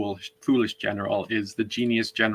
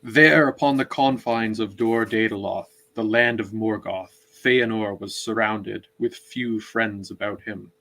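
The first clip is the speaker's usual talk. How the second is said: reading aloud. Shown as a demonstration. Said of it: "read a chunk of it".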